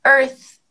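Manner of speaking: "earth" ending in a blown TH, tongue between the teeth. Shown as a demonstration. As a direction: finish "earth" on a little puff of TH. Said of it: "colocar a língua entre os dentes".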